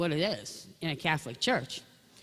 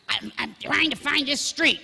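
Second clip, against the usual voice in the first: exasperated dad; 8 semitones higher, 5 dB louder than usual. Retold or imitated. Father answering child, exasperated.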